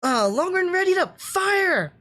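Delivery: high, urgent battle orders building to a shouted fire; anime commander call-outs. Retold or imitated. Fan imitating a warship officer ordering an attack, shouting the commands. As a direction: bark orders like a bridge officer in combat. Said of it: "when they're calling Hell Darts".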